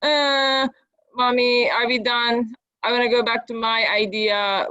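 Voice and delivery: mildly whiny kid imitation, drawn-out start; whiny child. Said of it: "like, whiny".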